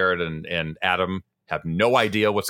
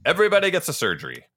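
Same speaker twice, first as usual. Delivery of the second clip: Oprah impression. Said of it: "we're the Oprah Winfrey surgery".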